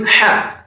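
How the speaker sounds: "Ha" drawn out with a breathed h; Ha with fatha. Shown as a demonstration. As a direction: model Arabic "Ha" slowly. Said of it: "If you add Fatiha to Ha".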